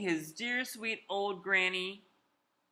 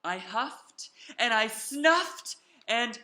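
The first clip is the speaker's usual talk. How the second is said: building sneeze; 4 semitones higher, 5 dB louder, slower than usual. Acted. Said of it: "I felt a sneeze coming on".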